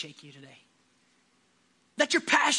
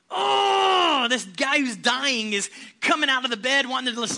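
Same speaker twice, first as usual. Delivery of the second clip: excited shout; 2 semitones higher, 5 dB louder than usual. Real, not acted. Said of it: "preacher shouting excitedly".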